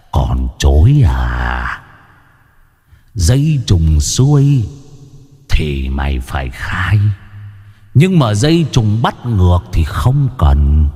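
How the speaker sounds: low, slow, menacing drawl; demon taunt. A narrator's reading. Demon guard sneering at the chained man, menacing. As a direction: toy with the prisoner like a demon.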